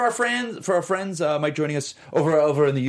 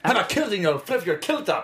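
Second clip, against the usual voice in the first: mock Scottish burr; Scottish accent. Shown as a demonstration. Cohost coaching partner's impression, in mock Scottish accent. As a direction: coach someone in playful Scottish. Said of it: "sound a little more like this".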